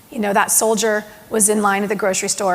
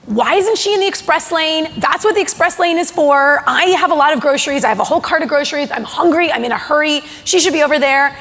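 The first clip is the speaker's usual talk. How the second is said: annoyed inner grumble; 5 semitones higher, 4 dB louder than usual. Retold or imitated. Soldier's impatient thoughts in line.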